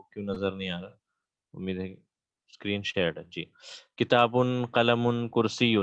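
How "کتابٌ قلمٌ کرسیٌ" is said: کتابٌ، قلمٌ، کرسیٌ with a clear final un; tanween endings. Shown as a demonstration. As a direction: stress the ending un on each noun. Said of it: "آپ کو یہ sound سنائی دے رہا ہے".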